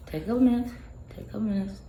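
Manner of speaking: high, fading soothing repeat; soothing self-talk. Retold or imitated. Retells calming down during breathing exercises.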